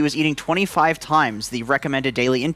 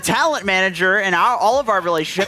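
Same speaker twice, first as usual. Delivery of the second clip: laughing tease; 7 semitones higher than usual. Real, not acted. Teasing friend while laughing.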